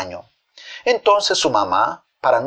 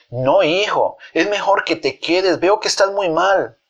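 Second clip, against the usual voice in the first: higher-pitched motherly worry; acted maternal concern; 5 semitones higher than usual. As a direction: urge the patient to rest, pitch raised. Mother worries over sick son.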